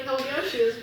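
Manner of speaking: high, loud retold cheer; excited retold agreement. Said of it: "I was like".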